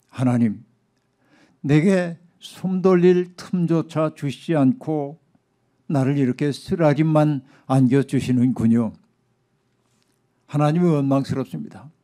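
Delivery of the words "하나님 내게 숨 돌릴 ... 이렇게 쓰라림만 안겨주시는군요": lamenting. Acted. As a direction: voice a sufferer's understated complaint. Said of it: "그는 오늘 본문에서 이렇게 탄식합니다". (절제되게 탄식하듯)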